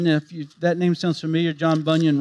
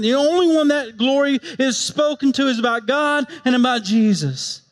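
impassioned preaching; 6 semitones higher than usual. Real, not acted. Preaching at full force.

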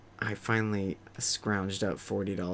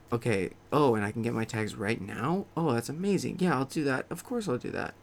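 mock delighted; 2 semitones higher than usual. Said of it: "I go".

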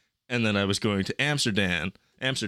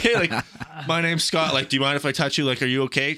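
raised, higher voice, checking on someone; urgent offer of help; 5 semitones higher, faster than usual. Retold or imitated. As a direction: act out stepping in as first aider. Re-enacts stepping in to help.

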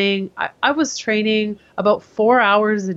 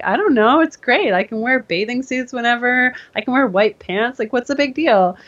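higher, airy and oblivious; carefree past self; 4 semitones higher than usual. Retold or imitated. Speaker mimicking her carefree younger self to the trainer, airy. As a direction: play your naive younger self, breezy. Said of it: "I'm like".

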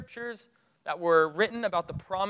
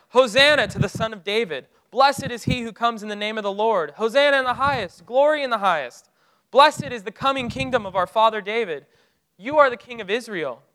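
raised, joyful crowd cry, louder and higher; crowd yelling praise; 4 semitones higher, 7 dB louder than usual. Retold or imitated. Preacher voicing the crowd greeting Jesus, loud joyful cry. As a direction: call it out like a crowd hailing a king. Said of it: "they start yelling out scriptures".

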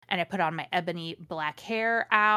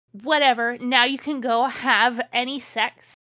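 louder, slow hammed-up yell; mock shout; 4 semitones higher, 6 dB louder than usual. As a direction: shout it like a sulky teen. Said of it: "I shouted".

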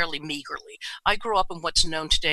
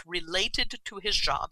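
air quotes; 5 dB quieter, slower than usual. Retold or imitated.

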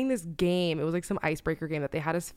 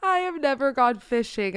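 laughing retelling; 5 semitones higher than usual. Retold or imitated. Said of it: "she goes".

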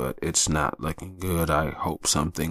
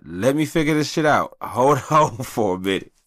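worried wife; 8 semitones higher, 3 dB louder than usual. Retold or imitated. Wife voiced, high.

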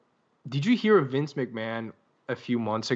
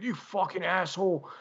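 indignant retort, pitched higher; mock an outraged rant, voice pushed up; offended; 6 semitones higher than usual. Offended fan firing back at the warning, indignant. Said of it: "got really offended by that".

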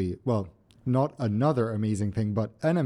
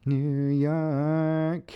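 New York accent, drawn out; 4 semitones higher than usual. Shown as a demonstration. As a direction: say it like a New Yorker. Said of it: "Oh, God, he's doing it again".

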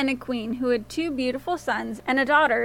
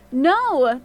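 yell; 5 dB louder than usual. A narrator's reading. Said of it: "the queen yelled".

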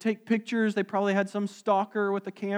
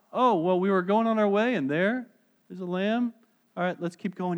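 offhand shrug. Retold or imitated. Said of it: "It's not just".

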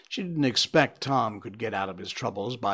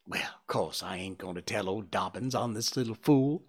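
put-on scornful boy grumbling to himself; muttering boy. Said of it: "Presently he said to himself".

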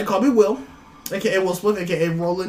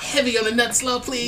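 mock order; 5 semitones higher than usual. Mock ordering food, laughing.

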